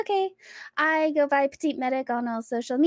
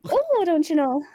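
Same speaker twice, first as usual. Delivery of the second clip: put-on Minnesotan accent; 3 semitones higher, 4 dB louder than usual. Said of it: "speak with a Minnesotan".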